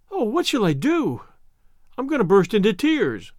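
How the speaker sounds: a hint of a heartbroken child winding up to cry; distraught orphan girl. Anne distraught, near tears.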